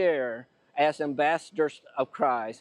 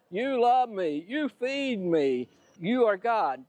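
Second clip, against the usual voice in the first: higher, drawn-out voice of an adoring dog; devoted dog; 4 semitones higher, slower than usual. Acted. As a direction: praise the master as a grateful dog would. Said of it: "The dog says".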